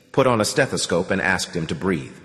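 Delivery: plain reading voice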